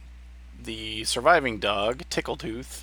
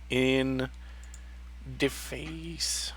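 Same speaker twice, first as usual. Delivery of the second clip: whispered; 5 dB quieter, much slower than usual. Acted. GM reveals the crossbow hit.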